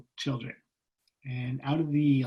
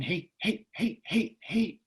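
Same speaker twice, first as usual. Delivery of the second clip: high, quick, repeated little pokes; imitated nagging; 6 semitones higher, slower than usual. Inner prompt tapping at the boy, high nagging imitation. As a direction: pester in a small high voice. Voices the nagging tap inside him.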